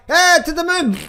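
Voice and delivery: high, loud mock hype; hyped cheer. Imitating hyped traders shouting to the moon. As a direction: cheer it like a moonshot fanatic. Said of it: "It's like".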